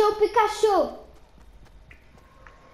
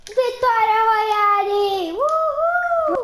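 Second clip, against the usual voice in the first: excited victory cheer; 4 semitones higher, 3 dB louder, much slower than usual. Pretend. Kid celebrating pretend game win.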